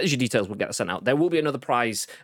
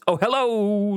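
mock greeting; 11 semitones higher, 4 dB louder, slower than usual. Shown as a demonstration. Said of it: "Nope, doesn't sound like that".

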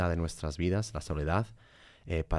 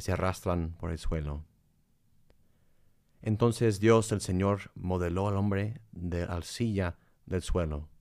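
scripture reading. Acted. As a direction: read it like scripture. Reads Genesis aloud.

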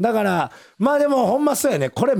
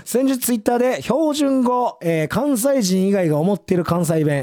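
measured on-air reading of a listener's letter; radio mail read; 6 semitones lower than usual. Acted. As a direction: read the mail out evenly and formally. (ラジオのお便りを読み上げる口調)

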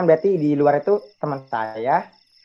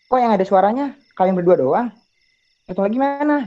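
raised, questioning pitch climbing at the end; retold puzzlement; 5 semitones higher than usual. Friend asks two juniors about the third, retold puzzlement. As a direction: act out baffled asking.

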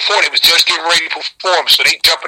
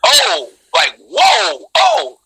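starstruck; much slower than usual. Retold or imitated. Starstruck at a rapper.

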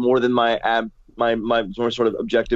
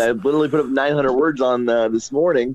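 strangled voice. Real, not acted. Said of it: "it's why I sound like I'm being strangled because I have no voice".

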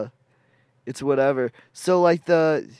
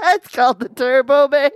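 laughing; 11 semitones higher, 7 dB louder than usual. Real, not acted. Repeats line laughing, high.

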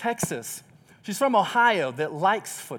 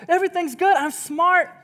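mock exasperation; 10 semitones higher than usual. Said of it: "I'm like".

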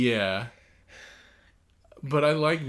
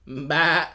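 goat bleat; 4 semitones higher, 8 dB louder than usual. Pretend. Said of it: "Oh, that was good".

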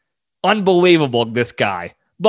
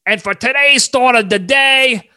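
mildly raised showman announcement; Big Time Tommy; 4 semitones higher than usual. Retold or imitated. Host voices Tommy opening his thought of the day. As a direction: announce the daily thought grandly. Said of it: "that's how he starts".

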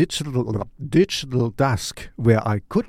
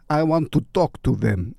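put-on light Russian accent, half by accident; a hint of Russian accent slipping in; lightly Russian-accented plea; 2 semitones higher than usual. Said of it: "I did it in a Russian accent".

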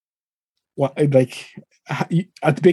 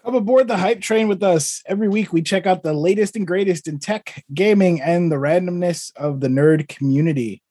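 show intro; 2 semitones higher than usual. Acted.

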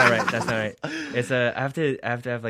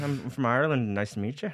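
put-on Irish accent; 3 semitones higher than usual. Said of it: "we love an Irish one".

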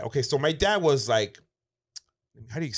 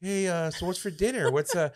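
playing it off; 7 semitones higher than usual. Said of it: "play it off".

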